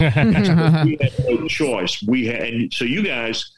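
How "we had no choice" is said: slow, exaggerated West Texas drawl, higher and louder. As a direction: stretch it out in a hammed-up Texas accent. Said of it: "His accent's worse than mine".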